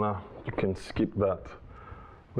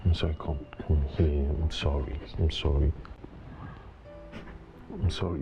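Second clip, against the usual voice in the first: contrite apology; 4 semitones lower than usual. Acted. Husband apologising after harsh words.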